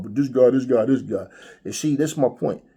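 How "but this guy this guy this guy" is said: louder mock of online chatter; mocking commenters. Host imitates commenters talking trash online, mocking. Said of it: "come in people comment sections talking shit".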